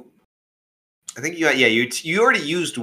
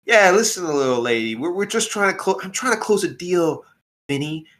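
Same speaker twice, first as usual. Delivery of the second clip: gangster voice; 3 semitones higher than usual. Acted. Mobster pushing a deal.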